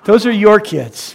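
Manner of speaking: slow, pointed; mock disowning. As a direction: hand the kids off playfully. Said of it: "Danica and I said".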